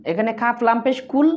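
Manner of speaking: কুল said with a clear Qaf and short u; correct Qul. Shown as a demonstration. Teacher spelling out the correct Qul for learners. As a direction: spell out কুল, then say it right. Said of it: "অনেকে আমরা কুল বলি".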